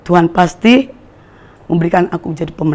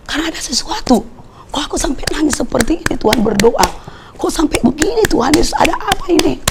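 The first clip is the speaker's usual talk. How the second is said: retold tearful prayer; 7 semitones higher, 4 dB quieter than usual. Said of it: "Saya nangis teriak sama Tuhan".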